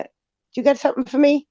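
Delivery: high-pitched retold question; playful high voice acting out herself; mock naive voice. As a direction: ask it in a high, innocent put-on voice. Retold meeting with James.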